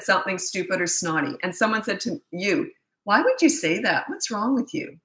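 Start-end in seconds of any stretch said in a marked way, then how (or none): 3.0-5.0 berating. Acted. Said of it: "You're berating them".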